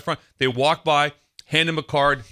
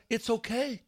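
soft, lightly pitched-up reassurance; reassuring; 8 semitones higher, 6 dB quieter, slower than usual. Retold or imitated. Consoling the man who yelled weakly, imitated reassurance. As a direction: let him off gently.

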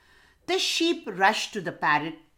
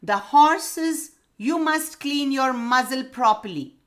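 hooting owl; 6 semitones higher, 5 dB louder than usual. A narrator's reading. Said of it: "hooted the owl".

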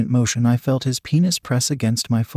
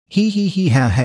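higher-pitched impish cackle; chuckle; 6 semitones higher than usual. A narrator's reading. Amused creature laughing to itself, impish chuckle. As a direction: giggle it out in character, hee-hee. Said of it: "it chuckled".

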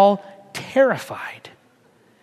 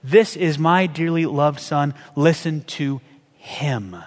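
tender; 4 semitones lower, slower than usual. Shown as a demonstration. Preacher showing God speaking of his son, slow and tender. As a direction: say it like a proud, gentle father. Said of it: "You know what I think it was?".

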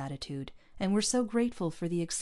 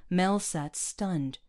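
ordinary delivery, nothing marked

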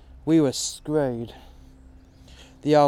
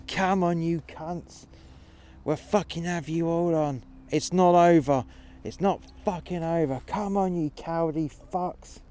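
higher, taunting yell; defiant shouting; 4 semitones higher than usual. Retold or imitated. Old man behind his shield taunting the army, shouting. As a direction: refuse to give up, goad them.

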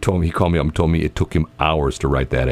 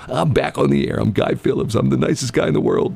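sweet on-air host voice; 5 semitones higher than usual. Retold or imitated. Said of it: "I always tell the story".

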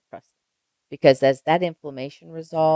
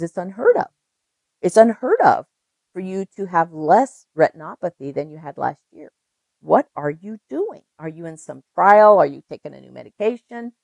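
amazed doctor; 2 semitones higher, 5 dB louder than usual. Retold or imitated. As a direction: gasp it out as if you can't believe it. Doctor amazed by healed retinopathy.

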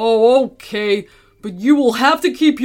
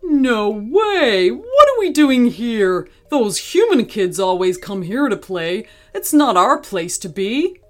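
louder, higher disbelief easing off; alarmed objection; 3 semitones higher, 4 dB louder than usual. Acted. Gorilla balking at human kids' field, objecting. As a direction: object loudly at first, incredulous.

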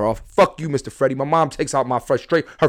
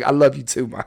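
laughing sweetness. Retold or imitated. Sweet reply to angry mom.

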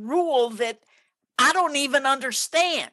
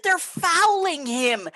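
slow, higher-pitched, drawn-out protest; insistent mock yell; 4 semitones higher, slower than usual. Parent repeating the complaint to the ref, insistent mock yell. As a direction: stretch FOULING in a half-yelled complaint. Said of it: "I'm yelling at the ref".

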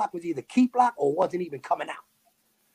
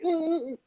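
high, soft stuck "uh, uh, uh"; small high stammered grunts; imitated stuck noise; 13 semitones higher, 5 dB quieter, faster than usual. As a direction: mimic someone frozen and stuck, high-pitched. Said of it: "stayed, like, stuck, like".

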